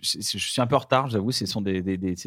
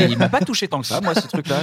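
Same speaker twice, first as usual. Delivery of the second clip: laughing; 8 semitones higher, 4 dB louder than usual. Real, not acted. Laughing while disagreeing.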